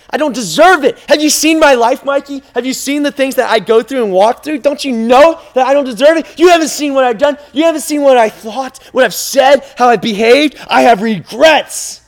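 high, loud, insistent objecting; distressed protest. Acted. Listener telling the preacher they're undeserving, distressed protest.

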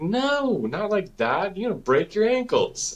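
high, pressing warning; dad warning his son about his ankles, high and urgent; urgent correction. Retold or imitated. Dad correcting son's running.

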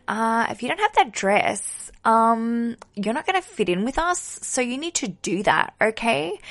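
a hint of a snooty mean girl; lightly voiced mean girl pushing the dress; bitchy school friend. High school friend pressuring about a dress, mock mean girl. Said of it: "your bitchy friend from high school went".

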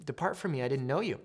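soft, understated rejection; quiet dismissal. Acted. Jesus to people expecting heaven, quiet dismissal. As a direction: turn them away softly.

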